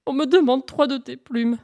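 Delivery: high, small pleading voice; whimpering. Acted. Hare timidly asks Pan for feathers, whimpering. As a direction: whimper the request, mock-pitiful.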